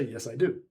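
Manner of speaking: "do" stressed as the last, decisive word; short answer with firm weight on "do". Shown as a demonstration. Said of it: "So there I'm emphasizing".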